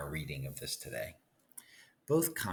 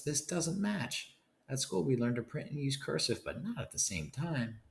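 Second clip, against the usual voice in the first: strict teacher; 7 semitones higher than usual. Acted. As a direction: scold like a fussy schoolteacher, pitched up high. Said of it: "she says".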